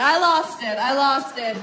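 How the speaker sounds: loud, high alarmed cry; mock panic. Acted panic during sex.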